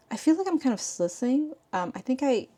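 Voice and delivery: slurring after biting tongue; just bit tongue. Real, not acted. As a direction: talk around a sore bitten tongue. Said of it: "I bit my tongue or something".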